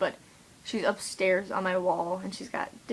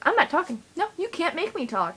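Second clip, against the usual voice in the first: mock stubborn refusal; 9 semitones higher than usual. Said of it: "I was like".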